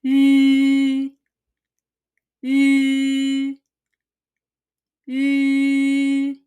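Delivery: 吁 in a level first tone; rounded yu sound. Shown as a demonstration. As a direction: say 吁 as yu with rounded lips. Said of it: "There is no corresponding pronunciation".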